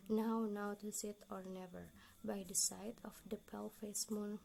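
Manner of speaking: hushed, breathy reading of a poem, mostly whispered; whispered poem recitation. Acted. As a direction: whisper the verses like a spell, lingering on the bells.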